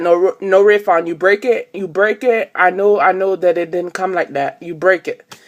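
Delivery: loud, mock Indian-accented store clerk; imitating Indian accent. Store clerk refusing her charger refund, mock Indian accent. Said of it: "And of course he was Indian".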